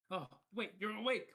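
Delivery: surprised. Acted. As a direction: catch that he's awake.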